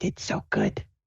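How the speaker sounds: quiet, breathy, close, private whisper. Retelling how Sue hugged a participant, retelling her whisper. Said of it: "and she whispers".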